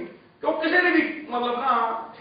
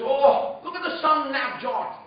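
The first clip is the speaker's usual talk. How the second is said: lightly mimicked English accent, pitched up; a hint of a put-on English accent; Jeffrey Boycott's accent; 4 semitones higher, much slower than usual. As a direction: imitate an English commentator's accent, higher at first. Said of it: "That's his accent that he had".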